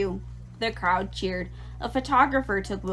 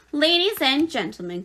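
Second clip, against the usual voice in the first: higher, louder announcer call over the fair; 6 semitones higher, 4 dB louder than usual. A narrator's reading. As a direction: open the address to the crowd with a big ringing call. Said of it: "continued the loudspeaker".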